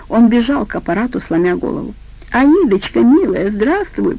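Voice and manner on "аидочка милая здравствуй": piping up eagerly on the phone; light mock squeal of a sycophant; squeaky greeting. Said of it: "пропищал он".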